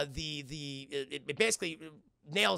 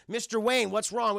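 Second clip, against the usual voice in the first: concerned nurse; 5 semitones higher, 4 dB louder than usual. Acted. Nurses rush in to patient.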